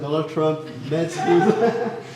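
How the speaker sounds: chuckling through the name; amused, words breaking into a laugh; laughing while speaking. Real, not acted. Presenter telling the audience about Trump, laughing. Talk mentions Trump meeting Ronaldo.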